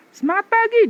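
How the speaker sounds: loud chest-voice cheer. Shown as a demonstration. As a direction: let "Semangat pagi" ring from the chest. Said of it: "dada, dada". (suara dada yang kuat)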